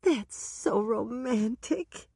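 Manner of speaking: put-on high gushing older woman's voice; Dolores, delighted. A narrator's reading. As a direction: swoon then bubble over.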